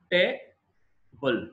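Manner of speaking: టేబుల్ drawn out slowly as tay and bul; slow syllable demo. Shown as a demonstration. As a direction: break టేబుల్ into two slow beats. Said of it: "two syllables ఉన్నాయి". (నెమ్మదిగా అక్షరాలుగా)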